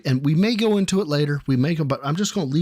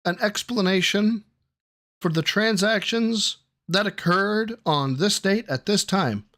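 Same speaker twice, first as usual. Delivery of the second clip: higher, measured formal questioning; mock interrogating lawyer; 5 semitones higher than usual. Examiner questioning Biden about transactions, mock formal. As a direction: put the question like a courtroom examiner.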